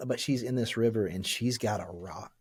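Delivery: holding back tears while telling it; choked up. Real, not acted. Describing the film's river scene to the hosts, quietly choked up. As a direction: voice sinking quiet as real emotion catches. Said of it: "I don't know why it's making me emotional".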